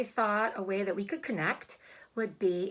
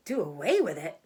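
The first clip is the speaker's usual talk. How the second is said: mild shriek; 4 semitones lower, 4 dB louder than usual. Acted. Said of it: "shrieked Fern".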